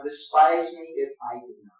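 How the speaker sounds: Despise me if I do not, resolute and pointed. Shown as a demonstration. Iago cutting Rodrigo off, determined and sharp. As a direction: say it with set determination, sharp at the end. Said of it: "More determined".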